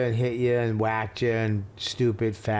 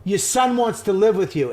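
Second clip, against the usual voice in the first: mother's angry voice; 7 semitones higher, 4 dB louder than usual. Retold or imitated. Mother hands phone, retold.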